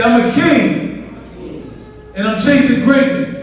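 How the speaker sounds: drawn-out rallying call; speaking up. Shown as a demonstration. Speaker has audience repeat, speaking up. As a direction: lead the chant, speaking up. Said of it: "Speak up".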